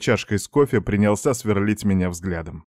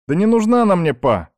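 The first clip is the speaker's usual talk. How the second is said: возмущённый выкрик; 11 semitones higher, 6 dB louder than usual. A narrator's reading. Сын вскакивает, спорит с отцом.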